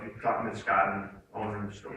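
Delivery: low, soft voice imitating a composed owner; calm. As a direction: answer an angry caller without rising to it. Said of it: "he remains calm".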